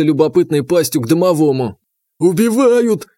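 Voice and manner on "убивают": high panicked shout; yelled cry for help. A narrator's reading. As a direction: scream it like you're being eaten. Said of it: "заорал домовой".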